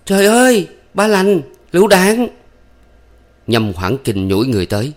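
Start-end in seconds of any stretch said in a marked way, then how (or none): 0.0-2.3 shrill panicked cry, much higher and louder; terrified scream. A narrator's reading. Thắm warning Ba Lành of the grenade, screaming. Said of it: "Thắm kêu thét lên".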